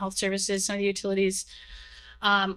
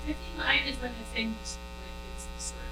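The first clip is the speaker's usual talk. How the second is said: fighting back tears, quieter and quieter; real emotion breaking through, nearly a whisper at the end; choked up; 2 semitones higher, 8 dB quieter than usual. Real, not acted. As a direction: voice dropping soft and tight with emotion. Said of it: "sorry, I got really emotional".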